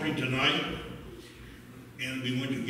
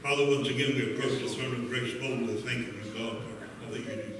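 lower-pitched, earnest offering prayer; public prayer; 3 semitones lower than usual. Real, not acted. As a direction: pray over the offering on behalf of the church.

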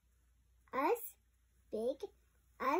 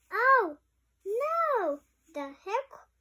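alarmed cry; 4 semitones higher than usual. Acted. Romeo cries out in story.

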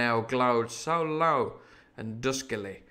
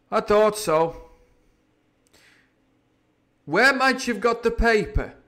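slow, louder, higher pirate voice; grim pirate; 9 semitones higher, 7 dB louder than usual. Acted. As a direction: drag the words out knowingly. Silver again.

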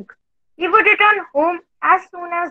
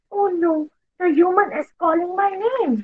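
fearful; 3 semitones higher, 3 dB quieter, faster than usual. Acted.

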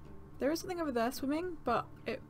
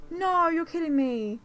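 disbelief; 5 semitones higher, 6 dB louder, slower than usual. Real, not acted. Den flooded.

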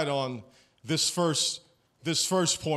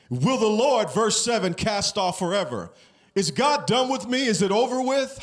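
pitched up, building intensity; rising impassioned preaching; 4 semitones higher than usual. Acted.

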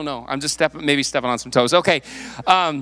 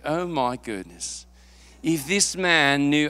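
put-on British accent; 2 semitones lower, much slower than usual. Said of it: "he probably had a British accent".

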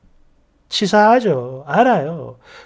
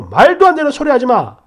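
louder retold shout; mild mock yell; 3 semitones higher, 5 dB louder than usual. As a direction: brush her off with a bark. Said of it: "버럭버럭 고함 지르고". (남편이 버럭 고함치듯)

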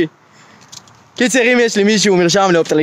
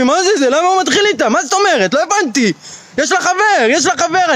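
higher, agitated mutter of disbelief; annoyed muttering to himself; 6 semitones higher than usual. Retold or imitated. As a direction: work yourself up, indignant and rising. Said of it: "נהיה עצבני". (עצבני, מדבר אל עצמו בקול גבוה)

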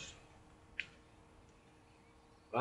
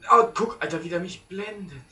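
excited outburst; 8 semitones higher, 11 dB louder than usual. Real, not acted. Getting flashed in game.

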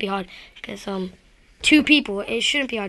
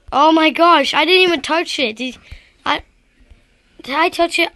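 mad; 3 semitones higher, 4 dB louder than usual. Real, not acted. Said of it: "But I'm really mad right now".

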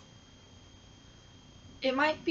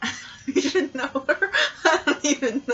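real giggling, higher voice; laughing; 5 semitones higher, 3 dB louder, faster than usual. Real, not acted. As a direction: try to talk while cracking up. Helpless laughter during blindfold test.

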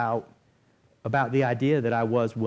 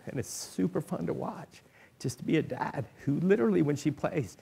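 choked up; 4 semitones higher than usual. Real, not acted. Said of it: "I'm sorry".

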